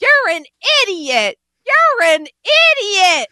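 high, loud insult shouted at a rival; angry yell. Retold or imitated. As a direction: bellow the insult like the brawl is starting. Coworkers yelling in a fight.

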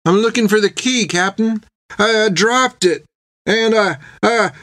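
high, faltering, fearful voice; Nut trembling. A narrator's reading. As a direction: stammer it timidly to an angry captain. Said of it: "soft and full of trembling".

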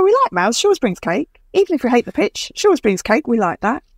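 lightly voiced cheerful colleague; a hint of delighted office chatter. Coworkers in the kitchen praising the cake, lightly voiced and chirpy.

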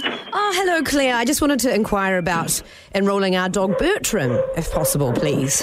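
hint of a posh pet owner; bougie voice. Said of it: "put on a bit of a bougie voice".

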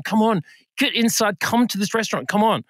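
acted-out impatient coaxing; urging, exasperated. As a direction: badger a reluctant mum. Acting out coaxing mum inside.

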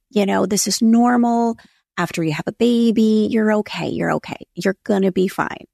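pep talk. Retold or imitated. Husband reassuring wife after the baby, imitated pep talk. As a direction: talk them down like a coaxing husband. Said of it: "giving me the pep talk".

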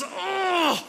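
high, loud, drawn-out "ugh"; acted groan of dread. Acted dread at relative's visit.

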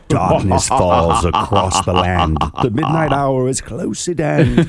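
Vincent Price voice. Retold or imitated. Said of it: "I have to listen to the song".

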